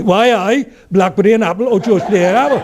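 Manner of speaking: high-pitched Geordie cafe lady; Northumbrian accent. Acted. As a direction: offer it like a sing-song Northumbrian waitress. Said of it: "we went to Northumbria for a holiday".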